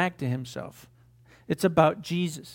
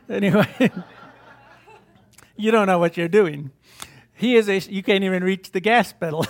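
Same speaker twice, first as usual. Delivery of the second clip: laughing; 4 dB louder than usual. Real, not acted. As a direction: laugh along with the words. Joking about steering God's car.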